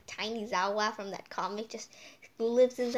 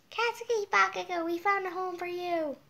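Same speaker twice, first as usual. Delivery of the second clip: calling to Bakugo; 8 semitones higher than usual. Real, not acted. Addresses the anime character.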